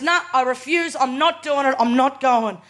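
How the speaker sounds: stubborn auntie refusing. Retold or imitated. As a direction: dig in your heels like a sick old auntie. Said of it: "She goes".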